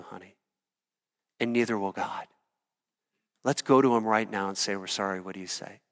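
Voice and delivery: put-on soft, reassuring father to his little girl; tender father. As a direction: gently comfort a child after a mistake. Father comforting his small daughter.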